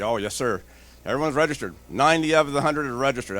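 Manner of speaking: lightly voiced eager underling; a hint of a keen employee reassuring the boss; retelling the guy's cheerful answer; eager antivirus guy.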